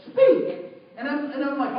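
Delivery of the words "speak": high, loud one-word order; acted command, pitched way up; insistent command. The voice ordering the teller to speak up, insistent command.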